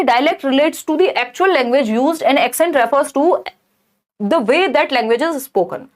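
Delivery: slow, deliberate question read-out. Acted. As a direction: read each word out carefully for the class. Reads an answer option.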